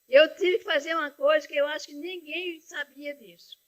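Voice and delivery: holding back crying as she confesses; tearful. Real, not acted. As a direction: voice catching with real tears. Confessing a secret sacrifice, tearful.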